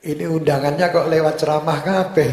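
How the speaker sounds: real chuckle in the voice; amused. Real, not acted. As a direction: tease good-naturedly through a laugh. Amused at invitations made via sermons.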